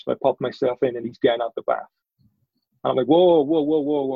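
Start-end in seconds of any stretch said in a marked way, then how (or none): 3.1-4.1 startled whoa. Retold or imitated. Retold shock at friend's nudity.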